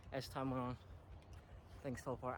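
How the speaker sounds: breathless, panting between words; out of breath. Real, not acted. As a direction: talk while winded from climbing. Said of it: "I'm out of breath".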